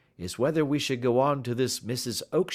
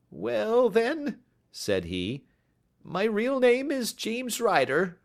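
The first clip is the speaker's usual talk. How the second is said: hesitant confession; 14 semitones higher, 3 dB louder, slower than usual. Acted. Man confessing real name.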